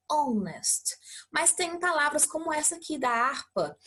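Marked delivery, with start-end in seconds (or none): 0.1-1.0 "honest" begun straight on the vowel; silent h. Shown as a demonstration. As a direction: leave out the h of "honest". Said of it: "leio ela com som mudo".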